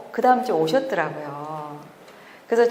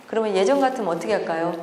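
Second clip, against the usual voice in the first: normal talking voice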